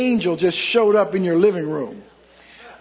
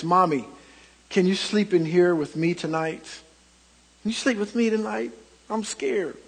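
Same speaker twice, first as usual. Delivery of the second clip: lightly voiced scared boy, softer toward the end; a small frightened plea, fading softer and quicker; trembling child's voice; 5 dB quieter than usual. Preacher voicing a scared boy asking his mother, trembling and soft. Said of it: "asked in a trembling voice".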